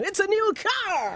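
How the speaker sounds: high, drawn-out prize reveal; game-show announcer. Acted. Guest spoofing a mystery reveal, game-show announcer.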